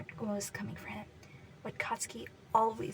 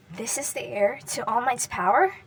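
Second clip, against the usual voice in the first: angry accusation; 6 dB louder than usual. Acted. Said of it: "he accused angrily".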